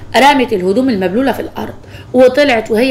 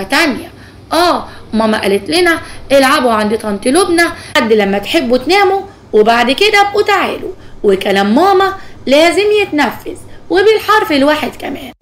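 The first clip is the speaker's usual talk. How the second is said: put-on cheeky girl; 2 semitones higher than usual. Voices the bratty niece.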